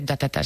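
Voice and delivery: syllable "ta" repeated like a stammer; mock stutter. Shown as a demonstration. Actress showing the interviewer which stutter she doesn't have, mock stammering "ta". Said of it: "empiezo a tartamudear, pero no de".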